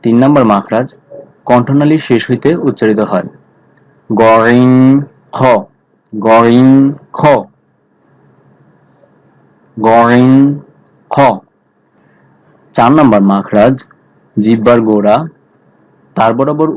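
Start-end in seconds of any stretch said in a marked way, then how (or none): 4.1-11.2 গরিং and খ said thick from the end of the throat; thick throat sounds. Shown as a demonstration. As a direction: say গরিং, খ full and heavy. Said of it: "মোটা করে উচ্চারণ হবে". (মোটা করে গরিং, খ)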